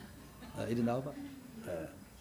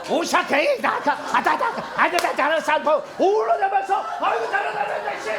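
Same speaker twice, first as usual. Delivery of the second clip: high laughing cries of praise; ecstatic tongues. Shown as a demonstration. Pastor acting an ecstatic tongues speaker for the church. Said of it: "이렇게 울어서".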